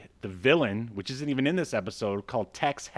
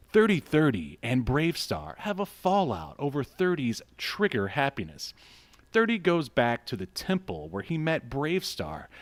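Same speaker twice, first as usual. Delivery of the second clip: slightly raised, measured announcer read; synopsis read-out. Real, not acted. Host reads the episode synopsis to listeners, measured announcer read. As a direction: read it out like an episode blurb, straight-faced.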